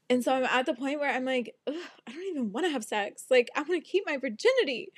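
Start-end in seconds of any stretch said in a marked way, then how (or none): 1.7-4.9 annoyed ugh. Retold or imitated. Quoted own groan, fast.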